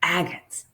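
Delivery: "agates" said carefully, AG-uh-its; "agates" pronounced with stress on AG; pronunciation. Shown as a demonstration. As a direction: model the word "agates" slowly and clearly. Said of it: "Agate is pronounced".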